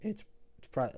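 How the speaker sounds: voice breaking mid-phrase, cracking on it's. Answering a question about the best free-to-play team, voice cracking. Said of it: "holy voice crack".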